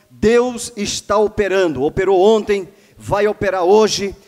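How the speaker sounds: projected, declamatory pulpit delivery; proclaimed blessing. Real, not acted. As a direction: proclaim it with rising conviction to the congregation. Blesses viewers, proclaims God working.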